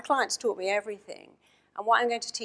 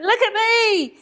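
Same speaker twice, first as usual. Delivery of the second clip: much higher and louder, bursting with pride; excited exclamation; 8 dB louder, slower than usual. Retold or imitated. The slimmed-down celebrity calls out to his therapist, thrilled. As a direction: show off the transformation, beaming. Elated ex-client shows himself off.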